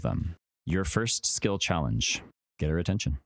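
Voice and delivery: slow, drawn-out fantasy narration; game master scene setting. Acted. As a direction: paint the scene slowly, with weight.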